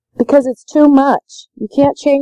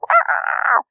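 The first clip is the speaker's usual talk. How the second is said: imitated child scream; 12 semitones higher, 4 dB quieter than usual. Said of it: "he'd scream".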